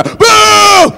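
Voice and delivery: high, loud drawn-out boo; booing crowd. Retold or imitated. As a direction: jeer at him all the way to the car. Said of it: "a boo where people follow you like".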